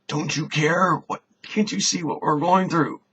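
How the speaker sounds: high, loud, frantic cry of panic; panicked plea. Acted. Disciples in a sinking boat waking Jesus, high frantic panic. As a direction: shout it like men about to drown.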